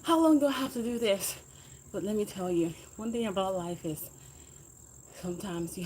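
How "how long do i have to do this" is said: mock exhausted complaint. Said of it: "screaming, cursing, saying".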